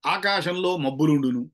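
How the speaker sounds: slow, measured ఆకాశంలో, then మబ్బులుండును; recited with pauses. Retold or imitated. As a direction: recite it slowly, setting ఆకాశంలో apart. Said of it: "pause స్పేస్ల గురించి మాట్లాడుతూ".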